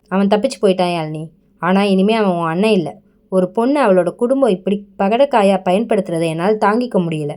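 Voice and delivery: low, hurried, voice cracking and fading at the end; a tired man's voice giving way; voice breaking. Acted. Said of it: "என்றான் அவன் குரல் உடைந்து". (உடைந்து தளரும் தாழ்ந்த குரல்)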